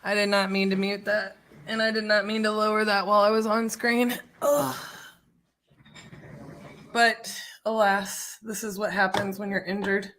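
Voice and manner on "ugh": higher-pitched groan of frustration. Real, not acted. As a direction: let out a frustrated "ugh". Groans after a mistake on stream.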